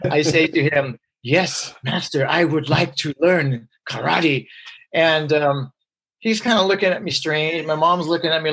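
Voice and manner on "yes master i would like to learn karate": slow, solemn mock Kung Fu master speech; a lightly played stiff kung fu disciple, slow; slow, earnest mock martial arts student; Kung Fu priest. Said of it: "talk to him like I heard David Carradine speak".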